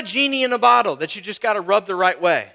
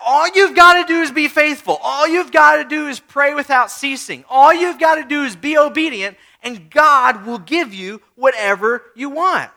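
mock prosperity preacher; 3 semitones higher, 5 dB louder than usual. Mocking prosperity preachers' message.

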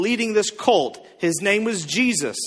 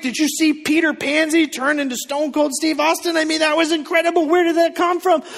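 excited prayer; 4 semitones higher than usual. Retold or imitated. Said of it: "They said".

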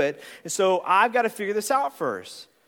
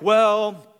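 hesitant red; 5 semitones lower than usual. Retold or imitated. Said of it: "The reds are like".

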